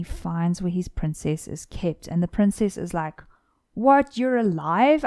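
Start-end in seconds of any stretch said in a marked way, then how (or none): 3.7-5.0 shocked gasp. Acted. Princess shocked to see prince.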